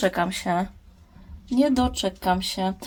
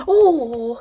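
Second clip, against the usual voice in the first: higher, slow, doting coo; cooing to plant; 8 semitones higher, 4 dB louder, much slower than usual. Acted. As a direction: coo at the little plant like a baby. (czułe, wyższe gruchanie do roślinki)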